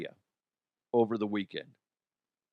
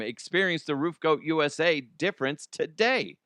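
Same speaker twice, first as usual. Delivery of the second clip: ad read; 3 semitones higher than usual. Acted. Host reads the roofing ad to listeners, upbeat ad voice. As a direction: pitch the roofer like a radio spot.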